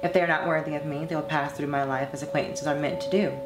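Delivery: measured, earnest read of a personal essay; composed monologue reading. Acted. Former performer reading her reflections on dating to fans, composed monologue. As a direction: read it as a composed confession, evenly and deliberately. Reads own written monologue over music.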